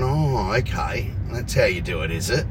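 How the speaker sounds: deadpan it, unimpressed; sarcastic. Retold or imitated. Sarcastic reply to excuse.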